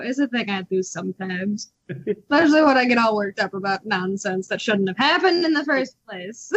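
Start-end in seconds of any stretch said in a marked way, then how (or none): 1.9-6.5 touch of a worked-up New York accent; mild New York edge. Real, not acted. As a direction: slip lightly into New York vowels. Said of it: "kinda get a New York accent".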